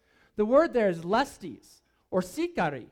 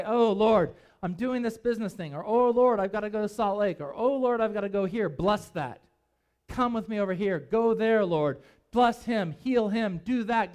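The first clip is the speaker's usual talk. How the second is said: loud, hammed-up whiny "Oh, Lord"; mock pleading prayer; 4 dB louder than usual. Preacher mocking how believers pray, hammed-up pleading. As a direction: parody a believer bossing God around.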